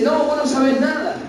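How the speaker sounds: put-on a touch of a defiant teen talking back; lightly mock the rebellious son's retort; defiant child quote. Preacher voicing a rebellious son defying his parent, mild defiance. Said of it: "Y hoy te dice".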